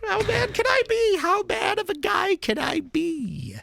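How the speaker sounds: a quick mocking take on Trump's bluster; high, half-hearted Trump imitation; Trump impression. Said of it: "Trump says it?".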